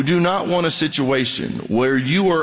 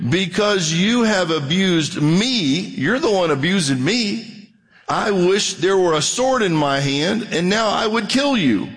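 angry Balaam; 7 semitones higher than usual. Acted. Balaam threatening his donkey, angry and higher. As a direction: let Balaam's rage climb higher.

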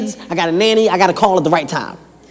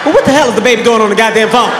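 exasperated outrage; 5 dB louder, faster than usual. Acted. Shocked outrage at baby.

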